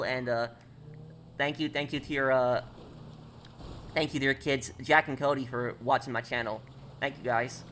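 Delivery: light New York accent on a thank-you shout-out; casual streamer thanks in a New York accent; friendly New York accent, lightly put on. Shown as a demonstration. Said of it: "I hope you like that, um, that New York accent".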